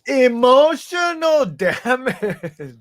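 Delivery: slow, high meme voice with laugh; mock Asian accent. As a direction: draw out each word, laughing. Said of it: "You can do it better".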